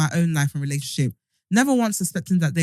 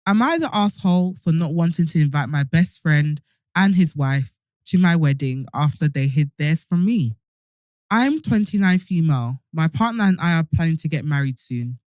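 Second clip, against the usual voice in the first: speaking around a hard retainer; tongue fighting a retainer; wearing a retainer. Real, not acted. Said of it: "if you hear my tongue fighting".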